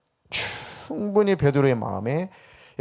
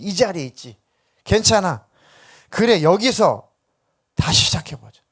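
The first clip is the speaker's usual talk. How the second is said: urgent, raised-pitch encouragement; 4 semitones higher, 4 dB louder than usual. Acted. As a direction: lift Simon up with emphatic, punched phrases. 예수가 시몬을 다독여 세우는 장면. (시몬을 다독이며 힘주어 격려하는 목소리)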